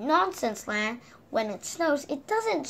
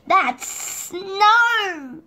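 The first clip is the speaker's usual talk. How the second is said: higher, louder correction; cry; 8 semitones higher, 7 dB louder than usual. Acted. Mister Silly correcting his friend, loud high cry. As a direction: cry out to set him right. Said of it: "cried Mister Silly".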